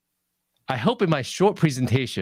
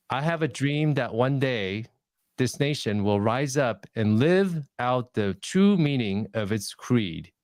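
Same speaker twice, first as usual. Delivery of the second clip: just read it out, no music in it; reading the speech without passion; flat reading; 2 semitones lower than usual. Shown as a demonstration. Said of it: "Now, contrast that with this".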